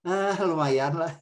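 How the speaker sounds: slow, unsure reply; husband avoiding hurting his wife, hedging; hesitant hedge. Acted. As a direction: stall politely about the food.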